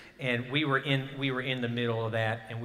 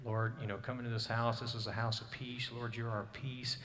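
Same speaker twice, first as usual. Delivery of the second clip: soft, hushed prayer at the bedside; softly quoted bedside prayer; quiet prayer; 3 dB quieter than usual. Retold or imitated. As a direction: pray gently over her. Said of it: "saying, and praying".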